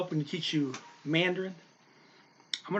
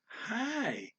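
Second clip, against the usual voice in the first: Hi pitched way up high; 9 semitones higher, 5 dB quieter than usual. Shown as a demonstration. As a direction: put Hi up top of the range. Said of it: "kind of up there".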